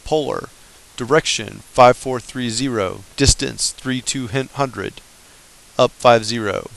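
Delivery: slow, measured radio readout; radio call voice. Shown as a demonstration. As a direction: read out the polar data deliberately. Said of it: "what I just read".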